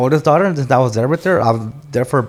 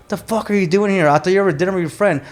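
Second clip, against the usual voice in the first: higher-pitched imitation of a mad ex-wife; retold angry scolding; 5 semitones higher than usual. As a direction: scold him as she did, in retelling. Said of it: "So she was mad".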